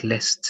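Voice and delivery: let's with the S swapped before the T; wrong let's. Shown as a demonstration. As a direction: show the mistaken let's. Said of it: "Sometimes I hear the S before the T".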